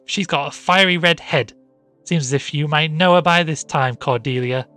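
high, loud insistence; exasperated. A narrator's reading. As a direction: press the point at the maid. Mistress arguing with frightened maid.

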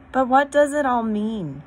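high loud urgent asking; breathless to understand; eager question. A narrator's reading. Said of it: "asked Susan".

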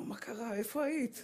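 high, soft astonished questions; mock astonished husband. Husband stunned when his wife calls him her crown. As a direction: act amazed at the new name. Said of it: "הוא אומר".

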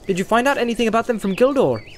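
Pippin voice. A narrator's reading.

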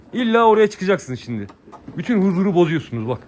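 playful scolding of lambs climbing where they shouldn't. Real, not acted.

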